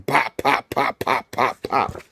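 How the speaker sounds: soft, quick popping noises; imitated punch sounds. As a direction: pop out each blow quietly.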